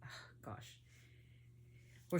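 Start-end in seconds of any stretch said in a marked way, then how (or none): 0.0-0.8 whispered, much softer, overwhelmed; words lost to emotion; choked whisper. Real, not acted. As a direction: let it fall away into a breath. Overcome thinking of the mother.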